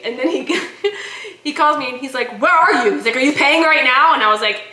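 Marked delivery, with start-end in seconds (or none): 2.4-4.1 louder, higher frantic questioning; mock-frantic phone interrogation; urgent husband. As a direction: imitate a panicked caller demanding answers. Husband's urgent phone call, retold.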